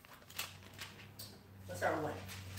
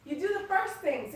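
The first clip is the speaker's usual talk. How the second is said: excited laughing prodding; 11 semitones higher, 6 dB louder than usual. Real, not acted. Pressing the group, laughing.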